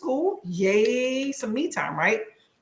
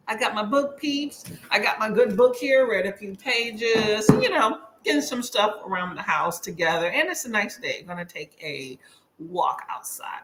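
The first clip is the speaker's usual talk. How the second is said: with whitening tray. Real, not acted. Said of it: "If I'm talking funny, by the way, y'all, I have some whitening strips on".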